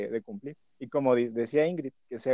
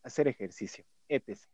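sensual voice; 3 semitones lower than usual. Acted. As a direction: read it low and seductive. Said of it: "lo voy a leer con voz sensual".

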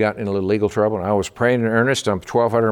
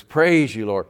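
gushing praise; slower than usual. Retold or imitated. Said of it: "every other word, it was".

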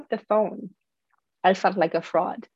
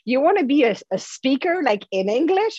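inner critic voice; 6 semitones higher than usual. Retold or imitated. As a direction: sneer it like a nagging inner voice. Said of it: "the voice was telling me".

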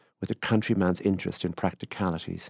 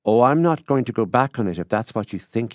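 loud, higher affable reassurance; 4 semitones higher, 7 dB louder than usual. A narrator's reading. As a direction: brush off the worry genially. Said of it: "he said affably".

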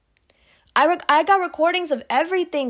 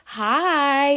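delicate greeting. Pretend. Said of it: "the way we talk to very old white people".

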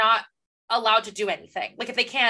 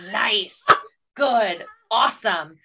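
dry praise, one isolated word at a time; sarcastic approval; 2 semitones lower, much slower than usual. Acted. Reader reacting to bad writing, sarcastic approval. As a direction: dole out hollow compliments with pauses.

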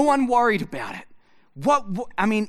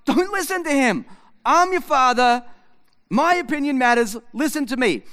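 mock insistent father; 4 semitones higher, 3 dB louder than usual. Father insisting to son, retold.

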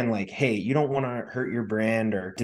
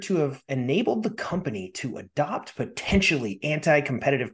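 trailer voice. Real, not acted. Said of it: "Sorry, I started going into my trailer voice there".

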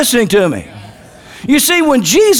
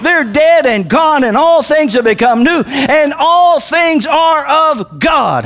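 raised, ringing sermon delivery; high-pitched pulpit proclamation; full-force preaching; 4 semitones higher than usual. Real, not acted. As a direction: preach it out, drawing out the key phrases.

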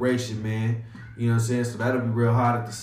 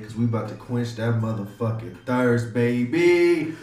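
radio DJ hype intro. Acted. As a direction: pump up the crowd like a live DJ. Opens the radio show.

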